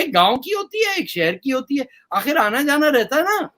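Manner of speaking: a hint of the cleric, sped up; quoting the maulvi. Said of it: "बोले". (मौलवी की हल्की नकल)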